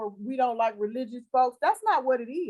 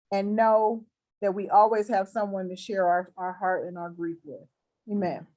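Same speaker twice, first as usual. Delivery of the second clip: closing prayer; 3 semitones lower than usual. Acted. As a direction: pray over her gently, like in church.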